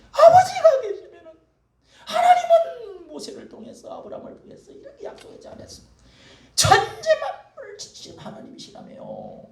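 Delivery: high, loud, half-laughing cry to God; desperate crying prayer. Acted. Hannah crying out to God in anguish. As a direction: wail the plea up high, voice cracking.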